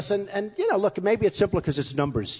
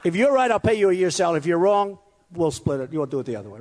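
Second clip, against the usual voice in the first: bold wager. Retold or imitated. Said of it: "And then I said".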